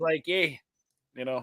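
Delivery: mock Yooper "eh"; put-on Upper Peninsula accent; Upper Midwest accent. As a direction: toss out a northern Midwest "eh". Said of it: "people like to talk like this".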